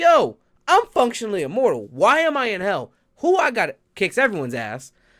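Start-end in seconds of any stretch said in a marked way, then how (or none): 0.0-3.7 pissed-off, angry, higher and louder voice. Retelling how a character woke up in hell: pissed off. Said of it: "he woke up pissed off".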